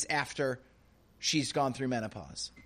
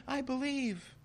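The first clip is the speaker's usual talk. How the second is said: weak believer; 10 semitones higher, 6 dB quieter than usual. Retold or imitated. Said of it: "It's a little like".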